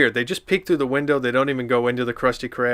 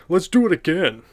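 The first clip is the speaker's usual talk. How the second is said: high, louder eager shout; 6 semitones higher, 5 dB louder than usual. A narrator's reading. Patrick shouting to SpongeBob to go again. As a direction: call out to go again. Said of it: "shouted Patrick".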